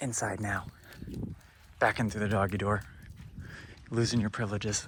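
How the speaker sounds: hushed whisper. Sending the dog back through the doggy door while Millie naps inside: whispering. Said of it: "I'm whispering because Millie's taking a nap".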